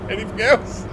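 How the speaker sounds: high mock voice through giggles; laughing high voice. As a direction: squeak it out while laughing. Reading chat's mum jokes aloud.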